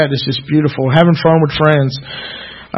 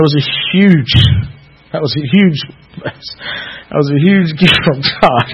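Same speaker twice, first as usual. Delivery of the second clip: holding back tears; slower than usual. Real, not acted. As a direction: voice close to crying, words slowed. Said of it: "I'm trying not to cry".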